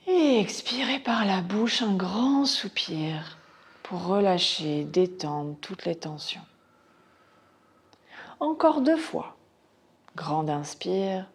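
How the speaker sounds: measured Yoga Nidra guidance with long pauses; guided relaxation. Acted. Teacher guiding students into Yoga Nidra, measured meditation voice.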